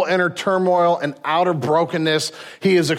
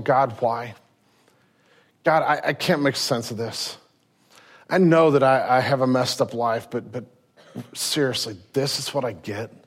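inner anguish; 4 semitones lower than usual. Retold or imitated. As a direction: murmur the despair under the breath. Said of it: "he's struggling".

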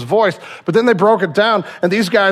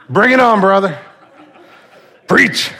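congregant calling out; 2 semitones higher, 3 dB louder than usual. Acted. Playing responsive congregant, calling out.

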